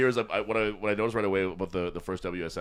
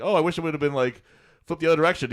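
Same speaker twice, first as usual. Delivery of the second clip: higher, louder nagging wife; mock wife; 9 semitones higher, 7 dB louder than usual. Wife complaining about the fridge's direction, mock nagging. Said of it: "And she's like".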